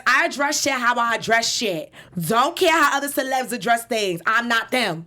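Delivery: mild mock yell, New York accent; a rapper yelling. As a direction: push the voice out, defiant. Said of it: "So this is just me yelling".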